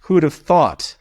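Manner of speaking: high-pitched mock surprise; exaggerated, teasing self-praise; playful sarcasm. Real, not acted. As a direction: feign amazement at your own expertise. Teacher mocks own role after compliment.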